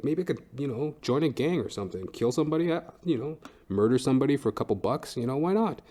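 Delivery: ordinary delivery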